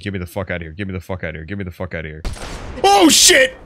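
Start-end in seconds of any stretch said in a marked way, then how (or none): 2.8-3.6 sudden high, loud yelp of shock; startled shout. Real, not acted. Gamer suddenly spots a monster, startled high yell. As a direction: yelp as if something just jumped out at you. Sudden sea serpent scare.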